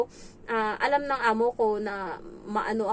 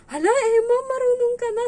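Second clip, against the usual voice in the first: much higher, louder praise; loud high amazed praise; delighted employer; 13 semitones higher, 9 dB louder than usual. Retold or imitated. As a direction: gush over the child. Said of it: "Sabi niya ganun".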